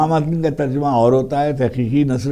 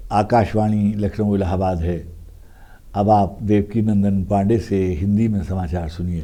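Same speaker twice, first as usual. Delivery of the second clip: put-on lower, measured old-radio newsreader announcement; Devki Nandan Pandey news tone; 4 semitones lower than usual. Recalling the childhood radio newsreader, a lower formal broadcast announcement. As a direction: announce it like a formal Hindi bulletin on All India Radio. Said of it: "یہ ان کا tone تھا".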